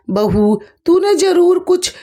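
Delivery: storytelling mock scolding with pitch spikes; scolding bitterly. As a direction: berate the daughter-in-law, voice climbing. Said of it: "बुरी तरीके से कोसने लगी".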